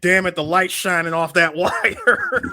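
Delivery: mock frustration through a laugh; half-laughed imitation of a frustrated editor; laughing quote. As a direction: laugh while griping about the wire. Quoting crew finding wire.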